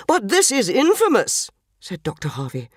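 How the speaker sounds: indignant. Acted. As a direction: protest like an affronted doctor. Doctor objects indignantly.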